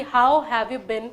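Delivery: very slow, drawn-out question; slow demo. Shown as a demonstration. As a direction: stretch it out so learners catch it. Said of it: "जैसा मैंने बोला कि आपसे पूछा जाए कि". (बहुत धीमे खींचकर पूछा सवाल)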